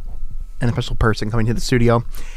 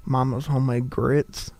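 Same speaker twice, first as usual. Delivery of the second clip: soft, hammed-up Southern accent; deep Southern accent; 6 dB quieter than usual. Shown as a demonstration. Host joking about own accent, deep Southern accent. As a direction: play up a down-home Southern accent. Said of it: "that deep Southern accent".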